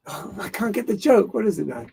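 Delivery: ordinary talk, nothing marked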